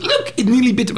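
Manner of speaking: high-pitched mock student excitement; excited onlookers imitated. Storyteller mimicking students watching the lion nearly bite, high excited mimicry. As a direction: squeal it like amused onlookers.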